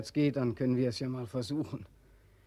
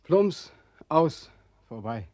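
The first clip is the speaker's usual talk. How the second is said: abrupt outburst; 3 semitones higher, 6 dB louder, much slower than usual. Acted. Imagining the fall into river.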